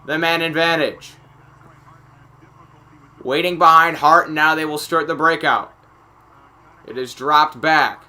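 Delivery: steady live hockey call; measured rink-side commentary; play-by-play. Acted. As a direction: narrate the breakout like a sportscaster.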